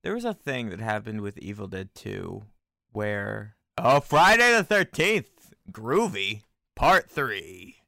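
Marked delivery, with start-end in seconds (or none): 4.0-7.8 loud, slow, big title voice; movie trailer announcer. Pretend.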